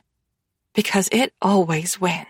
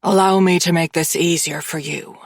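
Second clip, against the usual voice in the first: mild growl; 4 semitones lower than usual. Acted. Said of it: "he growls".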